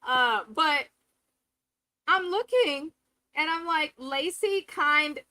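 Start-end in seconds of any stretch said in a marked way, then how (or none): 4.0-5.2 slow, small-voiced Lacey impression; Lacey's little voice. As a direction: drag it out in a tiny mock voice. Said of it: "Her voice is really little".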